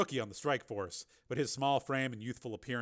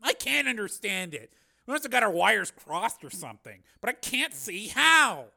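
high, louder, baffled protest; hopelessly baffled; 8 semitones higher, 8 dB louder than usual. A narrator's reading. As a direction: grope for an explanation. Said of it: "shook his head hopelessly".

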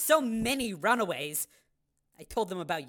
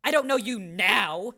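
defensive; 4 dB louder than usual. Acted. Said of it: "she said defensively".

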